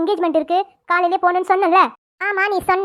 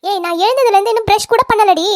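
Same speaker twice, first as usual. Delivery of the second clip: shouted retort; 4 dB louder than usual. Acted. Sisters quarrel over bathroom.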